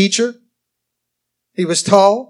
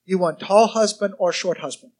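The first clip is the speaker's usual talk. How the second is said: lightly imitated Korean-accented English; hint of a Korean preacher's accent; David Yonggi Cho. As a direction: ask in a mild mock Korean accent. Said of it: "I love his accent and the way he talks".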